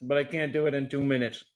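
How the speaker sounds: talking through burning hot chips; mouth on fire. Real, not acted. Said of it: "my face is on fire".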